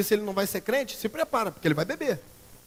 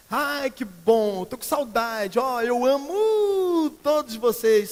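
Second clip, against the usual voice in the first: slow, louder, higher sugary parody; mock gushing; 5 semitones higher, 7 dB louder, much slower than usual. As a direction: drag out each word with fake sweetness. Mocking fake Facebook affection.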